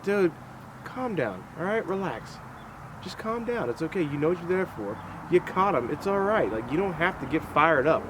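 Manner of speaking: soft, hushed, soothing voice; quiet mock reassurance to a pumped-up guy; calming him down. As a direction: talk a hothead down gently, softly. Retold talking down a hothead.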